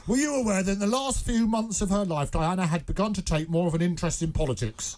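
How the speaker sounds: script read in a lightly acted informant voice. Reading his script to a colleague, lightly acted informant voice. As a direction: play the secret informant, barely changed. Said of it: "this is my script".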